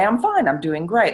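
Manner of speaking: mock-cheerful "fine" and "great" lifted high; upbeat. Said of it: "some days she'd say".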